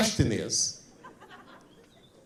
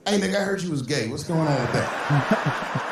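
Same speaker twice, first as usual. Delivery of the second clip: blunt blurted question. Retold or imitated. Comic asking his old friend the question he couldn't resist, blunt.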